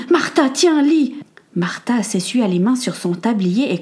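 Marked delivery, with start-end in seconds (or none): 0.1-1.1 high, loud and hurried; excited husband bursting into the kitchen; urgent excitement. Acted. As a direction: push the note at her in a rush.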